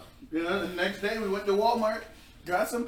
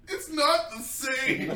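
slow, mournful "not the same"; mock sad; 8 semitones higher, much slower than usual. Girlfriend imitating boyfriend holding Mountain Dew, slow mock sorrow. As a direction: drag it out like a heartbroken kid. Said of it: "He's like".

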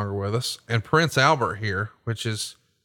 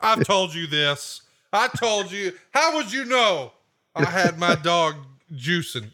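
much higher put-on voice of a confused friend; baffled friend; 7 semitones higher, slower than usual. Friend puzzled how host knew the dog was juicing, high baffled voice. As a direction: sound caught out and puzzled. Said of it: "He's like".

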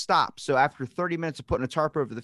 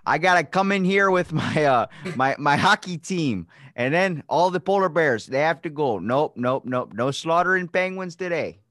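loud, bossy and a bit higher; bossy team owner; 5 semitones higher, 6 dB louder than usual. Pretend. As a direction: shoo everyone out like the boss. Acting hockey owner evicting bears.

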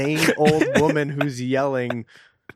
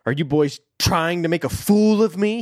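mild angry shout; 3 semitones higher, 5 dB louder than usual. Acted. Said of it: "shaking his fist".

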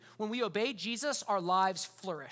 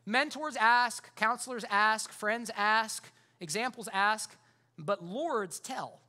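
slow measured list; much slower than usual. Acted. Preacher building a contrast.

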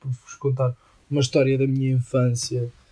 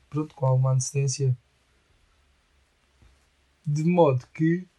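ordinary talk, nothing marked

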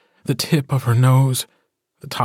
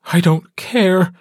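high, louder, slowed-down furious retort; angry growl; 7 semitones higher, 4 dB louder than usual. Acted. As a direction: she snaps back at him in a rage. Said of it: "she growls at him".

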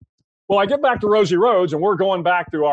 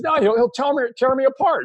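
high-pitched panicky protest; scared bartender; 8 semitones higher than usual. Acted. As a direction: squeak it out like a nervous bartender.

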